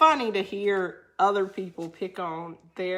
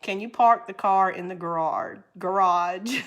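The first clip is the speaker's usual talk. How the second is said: put-on Northern accent; 3 dB louder than usual. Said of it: "Sin say".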